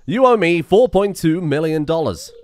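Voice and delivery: Tom Nook. Retold or imitated. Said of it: "This is a Tom Nook situation".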